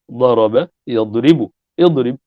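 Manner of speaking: slow, careful conjugation, each vowel clear; slow teaching demo of "ضرب يضرب اضرب"; slow demonstration. Shown as a demonstration. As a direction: spell out the verb forms slowly for the class. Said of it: "أتينا بهمزة وصل مكسورة".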